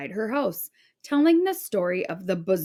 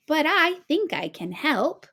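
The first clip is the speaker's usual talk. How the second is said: put-on much higher, sweet old woman; bright and sweet; 8 semitones higher than usual. A narrator's reading. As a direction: kindly offer of help. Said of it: "she said brightly".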